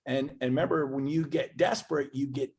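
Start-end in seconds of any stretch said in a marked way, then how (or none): 0.0-1.1 rising angry repetition; fed up. Retold or imitated. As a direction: done with it all, building to a peak. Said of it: "So I said".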